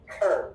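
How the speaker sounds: TER with a crisp true T; hard T. Shown as a demonstration. Teacher showing what not to say, hard T in TER. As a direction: pronounce TER with a full T sound. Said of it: "we do not say".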